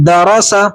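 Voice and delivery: دا را سا joined with short vowels; each "a" in دا را سا kept short; short unstretched vowels. Shown as a demonstration. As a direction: blend دا را سا without dragging any syllable. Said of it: "ان کو ہم کھینچیں گے نہیں".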